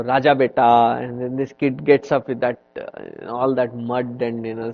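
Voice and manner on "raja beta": put-on mother calling her child from afar. Mother searching for her child, calling out. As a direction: call out to the muddy kid. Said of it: "calls out".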